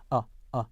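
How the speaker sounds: plain "uh" for 어, no R colour; British schwa. Shown as a demonstration. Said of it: "R 컬러가 없는 영국".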